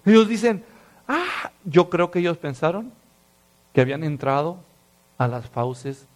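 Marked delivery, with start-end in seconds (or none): 1.1-1.5 "ah" agudo y breve, contenido; grito desesperado a medias. Acted. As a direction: imita un grito de desesperación sin volumen. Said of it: "es un grito intenso, desesperado". (amago de grito desesperado)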